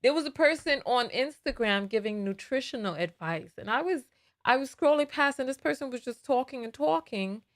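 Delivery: heavy New York accent; tired, thick New York accent. Real, not acted. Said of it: "my New York accent is so deep right now".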